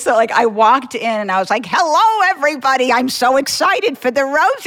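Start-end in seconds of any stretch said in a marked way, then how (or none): 1.7-4.7 Ice Cold Rhoda. Retold or imitated. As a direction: put on a sweet old lady voice. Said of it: "I went in as Ice Cold Rhoda in costume".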